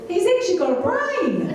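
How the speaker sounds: high, laughing delivery. Real, not acted. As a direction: say it through laughter. Laughing while speaking.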